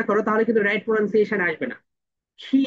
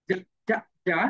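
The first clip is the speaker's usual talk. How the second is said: British "যা" repeated lower; British z sound; 3 semitones lower, 4 dB quieter than usual. Shown as a demonstration. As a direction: drill the British "যা". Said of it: "এটা হচ্ছে British sound".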